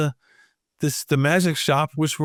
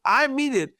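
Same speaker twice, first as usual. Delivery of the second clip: higher, slowing, offended; indignant Zot; 6 semitones higher than usual. Retold or imitated. Zot turning to the readers, indignant. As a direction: scold the readers.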